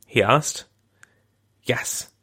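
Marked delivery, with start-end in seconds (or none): 1.6-2.1 a bare breath of a yes; whisper. Retold or imitated. Wife answering her husband on the phone, whispering. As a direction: barely voice it, devastated. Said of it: "she whispered back".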